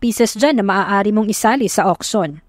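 lightly voiced father, calm and steady; a hint of a dad backing his girl up; reassuring dad. Father tells his daughter she has other pieces, gently reassuring.

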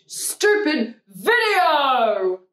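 slow, whiny mock-crying read; mock whining. Mocking a hater's comment with a slow, whiny mock cry. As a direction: whimper the hater's words.

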